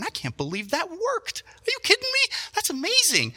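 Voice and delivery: high, squeaky mischievous glee; gleeful disbelief. Retold or imitated. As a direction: gloat like the prank just worked. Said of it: "and I'm going".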